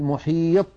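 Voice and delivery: "محيط" with the final ط shut dead, unreleased; wrong, no qalqalah. Shown as a demonstration. Teacher showing students the mistake, "محيط" without the echo. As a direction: end "محيط" on a closed ط, no bounce. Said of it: "ولا نقول".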